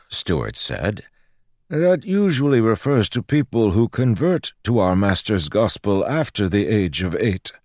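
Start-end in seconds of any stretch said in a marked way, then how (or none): 1.7-7.5 higher-pitched priest in a character voice; explaining priest. Acted. Priest explains the rule to the girl, lecturing.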